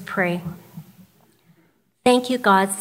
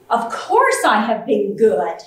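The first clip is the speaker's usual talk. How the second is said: put-on little girl voice; 5 dB louder than usual. Child answers Santa.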